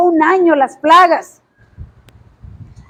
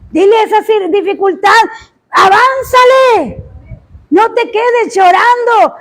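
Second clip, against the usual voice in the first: fiery preaching; 3 semitones higher than usual. Acted. Preacher voicing God's rebuke to the congregation, forceful. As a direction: preach it hard, rebuking the weak.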